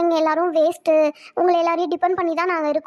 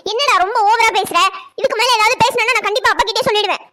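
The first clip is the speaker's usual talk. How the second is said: raised, sharp scolding of a brat; 3 semitones higher, 4 dB louder than usual. Acted. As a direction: tell him off loudly, threatening. Sister scolds boastful brother.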